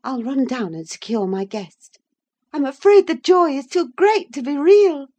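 high, teasing mock orders; mock his fussiness, high and animated; droll, half angry. A narrator's reading. Wife mocks husband's fastidiousness, droll high-pitched orders. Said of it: "half angry, half laughing at his fastidiousness".

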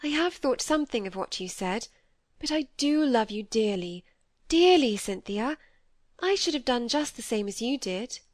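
earnest reassurance, swelling on the endearment; lightly voiced Molly, affectionate. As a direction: lightly play a loving friend, heartfelt.

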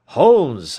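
a loud, urgent cry of alarm; cried out. A narrator's reading. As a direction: call out his name in shock. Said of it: "I cried".

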